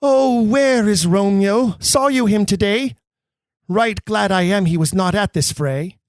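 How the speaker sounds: a light touch of an anxious mother asking after her son; Lady Montague. Acted. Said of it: "Lady Montague".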